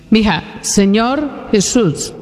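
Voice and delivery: each word stretched very slowly; patient slow repetition; slow, insistent prompt. Shown as a demonstration. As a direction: coax her again, drawing out Jesús. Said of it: "Mija, repita conmigo".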